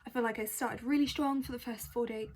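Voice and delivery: speaking between hiccups. Real, not acted. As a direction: hiccups breaking the line. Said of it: "Please excuse my hiccups".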